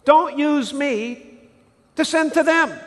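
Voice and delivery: high, mock pious pleading; reluctant believer. Churchgoer praying to God, mock pious and reluctant. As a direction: beg off politely while sounding holy. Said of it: "Can we say".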